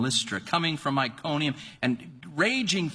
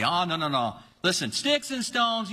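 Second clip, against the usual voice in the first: mom's reassurance; 3 semitones higher than usual. Retold or imitated. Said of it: "my mom used to say".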